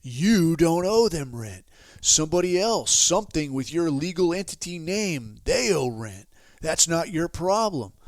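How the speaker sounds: mock-authoritative pitch to a follower; imitated scam guru. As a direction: play the guru reassuring his mark with emphatic certainty. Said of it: "And the guy's like".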